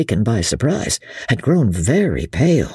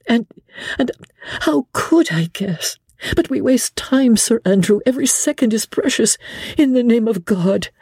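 higher, pleading lady's voice; desperate plea; 10 semitones higher than usual. A narrator's reading. Lady Blakeney begging Sir Andrew to trust her, desperate and higher. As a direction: beg him to believe her.

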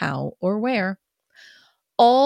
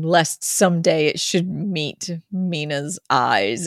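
ordinary delivery

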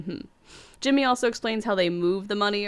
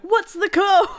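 higher, louder laughing yell of a worker; half-laughing imitation of a yelled question; mock yell; 11 semitones higher, 6 dB louder, slower than usual. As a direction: shout it from the back of the crowd. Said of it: "he really just yells out in the background".

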